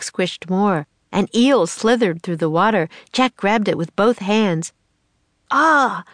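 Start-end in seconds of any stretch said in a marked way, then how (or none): 5.5-6.0 startled yell, higher and louder. Acted. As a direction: cry out as the eel wriggles in your hands. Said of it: "he yelled".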